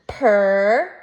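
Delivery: per said alone and held on the er; isolated syllable. Shown as a demonstration. Teacher reading purple in chunks, a held separate syllable. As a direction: sound out per as one chunk. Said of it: "my first syllable is".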